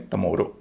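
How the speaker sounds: टमोरो as tuh-MO-ro; second-syllable stress. Shown as a demonstration. Teacher giving an exception, टमोरो stressed on "mo". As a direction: hit "mo" in टमोरो after a weak "tuh". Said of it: "दूसरे पर stress है".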